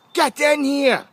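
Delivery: sharp, loud summons from behind the door; headmaster's shout. Retold or imitated. Headmaster yells at the boy to come in. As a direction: bark the boy into the office.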